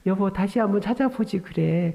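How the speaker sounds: mildly coaxing husband; imitating patient tenderness; sweetly gentle. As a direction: suggest it kindly, without any irritation. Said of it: "상냥하게".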